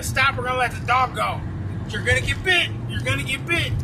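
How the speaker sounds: mock police shout, repeated; retold cop yelling. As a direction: call out the warning like a chasing cop. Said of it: "They're yelling at him".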